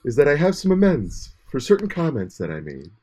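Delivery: slow solemn radio voice; grave public radio statement; serious NPR tone. Pretend. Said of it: "for the N P R serious tone".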